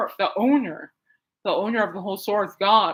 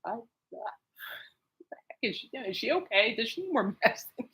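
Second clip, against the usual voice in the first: imitating onlookers; 3 semitones higher, 6 dB quieter than usual. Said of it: "everybody has to be going".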